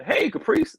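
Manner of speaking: high-pitched retold "Hey"; imitated calling out. Telling the confused friend who is on the phone, high imitated call. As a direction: call the name up high, as if getting someone's attention.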